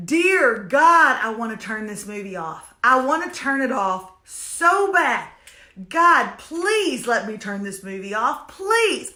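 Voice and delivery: pleading with God to stop the movie; mock prayer. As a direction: beg heaven to let you quit. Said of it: "I look to the heavens and I say".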